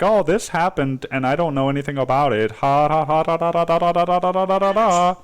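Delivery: a dismissive mock voice trailing into sing-song da da da; mocking know-nothing. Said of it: "instead of just saying".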